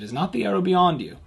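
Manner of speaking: loud, high call across a field. Acted. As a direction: shout after the running boy. Jonathan calls after the boy.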